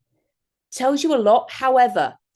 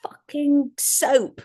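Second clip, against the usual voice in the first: husband's outburst; 5 semitones higher, much slower than usual. Retold or imitated. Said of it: "It goes".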